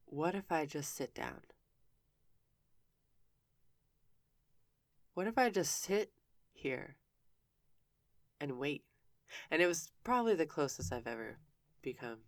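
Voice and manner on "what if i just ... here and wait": dreamy inner thought. Retold or imitated. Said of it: "I think to myself".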